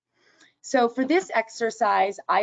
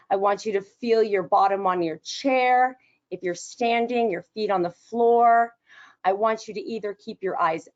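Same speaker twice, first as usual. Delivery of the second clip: guided relaxation. Shown as a demonstration. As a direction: lead them gently into stillness. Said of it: "guided relaxation begins".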